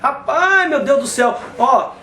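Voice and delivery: exasperated outburst, easing into apology; agitated, losing patience; getting worked up. Real, not acted. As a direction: protest in real exasperation, then come down. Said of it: "Eu tô ficando nervoso".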